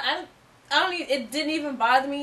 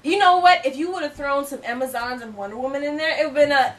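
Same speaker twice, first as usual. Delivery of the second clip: fake British accent; 3 dB louder than usual. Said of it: "we're doing our accents".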